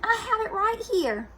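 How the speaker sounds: high, eager younger sister; Baby Lincoln voice. Acted. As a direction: sound high and helpful.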